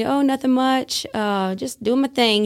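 put-on light Hispanic accent. Inmate painter answering a visitor's greeting, light Hispanic accent. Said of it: "in his little accent".

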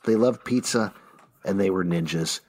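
hushed bedtime story voice; fairy tale opening. Pretend. Storybook dedication to Pete.

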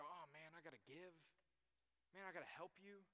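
soft, begrudging mock complaint; put-upon mock sigh of duty; reluctant grumble. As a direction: act out giving help grudgingly. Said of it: "don't give reluctantly".

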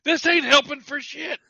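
slow, high, loud mock Cockney; hammed-up Cockney miner; Cockney accent. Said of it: "all these miners are like".

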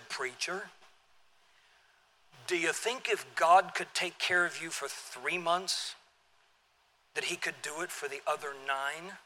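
put-on slow, low, soft Southern drawl for the old preacher; deep southern drawl. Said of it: "deep southern drawl".

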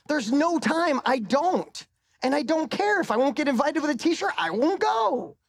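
laughing defiance, getting carried away; defiant excitement. Real, not acted. Defiant boast about t-shirts.

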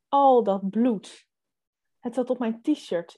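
measured reading with dramatic pauses; suspense story narration. A narrator's reading. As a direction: read it like a tense first-person thriller. Reads a suspense story aloud.

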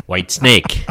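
A band name with a loud punch on the second word; wrong-syllable stress. Retold or imitated. Host imitating a friend's odd emphasis, misstressed. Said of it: "emphasis on the wrong syllable".

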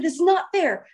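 mildly acted distraught complaint; retold losing it. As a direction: imitate yourself losing it, not full force. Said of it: "I just start losing it".

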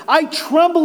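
high-pitched trembling confession; anguished cry. Acted. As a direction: cry it out in dread. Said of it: "he cried".

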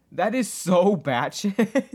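high, loud and drawn out; loud, slow, incredulous verdict; amazed disbelief. Real, not acted. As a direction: stretch it out in gleeful astonishment. Reacting to an absurd scene.

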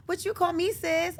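high, slow, mock-offended reply; retold indignant comeback. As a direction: stretch it out high in protest. Voices daughter answering back.

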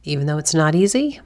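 hoarse, croaky voice; frog voice. Real, not acted. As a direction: talk through a croaky throat. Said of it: "this episode with my frog voice".

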